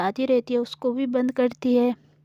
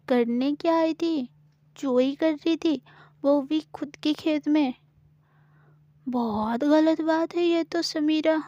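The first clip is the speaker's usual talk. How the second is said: teasing bargain. Acted. Gauri teases Samira and bargains for her silence.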